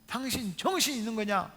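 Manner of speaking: acting out a mildly angry mother telling off her husband; wife berating husband in a mock telling-off; scolding mother. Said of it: "아빠 목사님을 막 혼내는 거예요".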